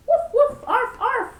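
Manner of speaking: woofs pitched high and loud; loud high woofing. Acted. Reader imitates the noisy dog, high loud woofs. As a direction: bark it out like a little dog.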